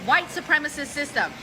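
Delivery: ranting woman. Retold or imitated. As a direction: imitate her storming off ranting. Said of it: "She's like".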